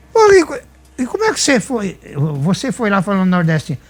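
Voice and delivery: high, startled disbelief in a retold quote; a stunned friend catching a lie, high and incredulous; retold astonishment. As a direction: echo Lira's shock at being fooled, pitched well up. Lira shocked at the deception.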